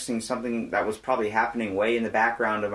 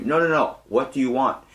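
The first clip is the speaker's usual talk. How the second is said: insistent housekeeper; 2 semitones higher, 7 dB louder than usual. Retold or imitated. Housekeeper insists on his order.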